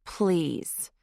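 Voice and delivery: mocking echo of a plea. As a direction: sneer it back at her. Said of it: "the passenger said mockingly".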